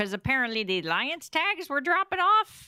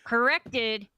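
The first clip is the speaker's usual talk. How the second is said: put-on Chicago accent. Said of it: "going into my Chicago".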